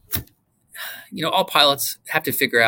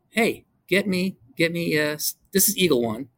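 wing commander's radio call; 3 semitones higher than usual. Retold or imitated. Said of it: "to call in and go".

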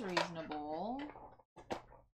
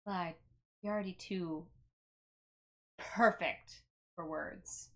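slow, deadpan flattery with long pauses; possibly sarcastic; 4 semitones lower, 3 dB quieter, slower than usual. Acted. Player addresses Clyde over beauty rest, drily sarcastic. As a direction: lay on the compliment slowly and drily. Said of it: "is there sarcasm in that".

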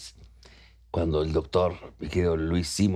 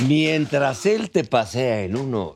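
laughing pitch; 2 semitones higher than usual. Real, not acted. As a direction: sell it like an ad, laughing.

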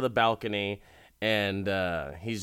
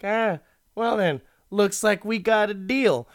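higher and louder, pleased with himself; smug rich guy; 11 semitones higher, 6 dB louder than usual. Retold or imitated. Rich guy gloating to the salesman, higher and louder. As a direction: gloat over the done deal.

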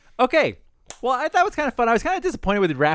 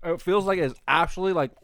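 mouth burning from spicy food; 2 semitones lower than usual. Real, not acted. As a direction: speak around a burning tongue. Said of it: "My tongue feels like it's on fire".

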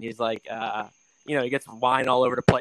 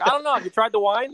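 Joe Pesci impression; 9 semitones higher than usual. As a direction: put on a hammed-up wiseguy voice. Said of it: "He's like".

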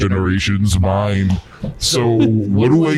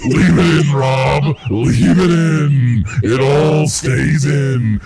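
insistent shout; 6 semitones higher, much slower than usual. Real, not acted. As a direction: demand they keep the take. Insisting on keeping the bit.

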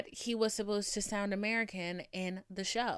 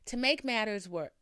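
Boston-tinged "matters"; slight Boston slip on "matters"; accent slipping out. Real, not acted. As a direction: try and fail to hide the accent on "matters". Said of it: "there it is again".

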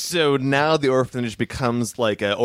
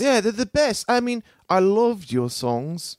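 put-on much higher, excited little kid; eager orphan kid; 10 semitones higher, slower than usual. Orphan kid gushing to Amadeus, high and eager. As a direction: gush like a fan.

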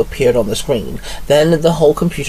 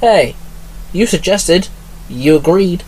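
cheeky Alex; 7 semitones higher than usual. A narrator's reading. Alex insists on coming along, higher cheeky voice. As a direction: bounce it back playfully. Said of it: "Alex smiled".

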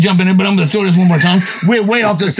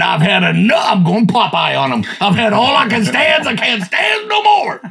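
God fed up. Retold or imitated. God done with sin, building Popeye outburst. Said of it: "God said".

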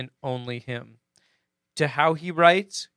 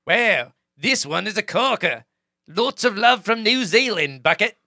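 New Zealand accent; 4 semitones higher, 4 dB louder than usual. Shown as a demonstration. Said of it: "I'm gonna try to do the accent here".

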